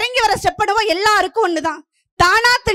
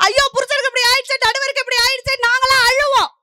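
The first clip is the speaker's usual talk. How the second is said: mock lament; 4 semitones higher than usual. Wife lamenting over injured husband, mock wail. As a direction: play a wife lamenting in a raised pitch.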